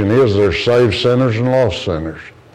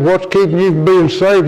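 raised-pitch pleading question; urgent question; 8 semitones higher than usual. Retold or imitated. Preacher presses the boy about salvation, higher and urgent.

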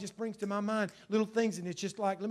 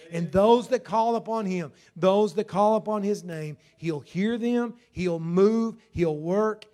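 preaching shout; 7 dB louder, slower than usual. Real, not acted. Preacher building to a cry.

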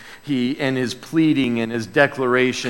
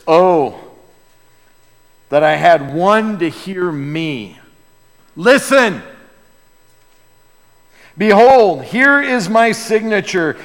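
louder, pleading with God, rising at Listen; Job's desperate plea; 4 dB louder than usual. Acted. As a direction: cry out to God to answer you. Job pleading to God, quoted.

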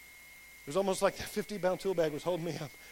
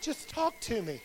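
mom's worried voice; 3 semitones higher, slower than usual. Retold or imitated. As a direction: imitate mom gently coaxing, hushed. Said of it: "That's how my mom talks".

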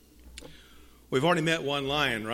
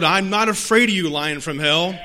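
defiant declaration; 7 dB louder than usual. Acted. Jesus defying the devil.

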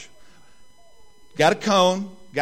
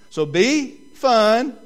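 laughing through the words, slow and loud; can barely get it out for laughing; 4 semitones higher, 6 dB louder, much slower than usual. Real, not acted. Pastor cracking up at his own story while repeating the rule.

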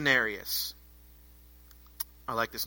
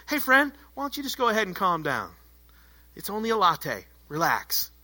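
soft, patient calming voice; lightly acted gentle reassurance; mock soothing; 5 dB quieter than usual. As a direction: talk down an agitated stranger, easing off softly at the end. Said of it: "These guys are all worked up".

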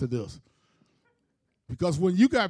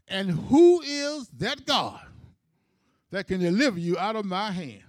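smart-mouthed king. Retold or imitated. King defying the three men's God, smart-mouthed. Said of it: "then the king got smart".

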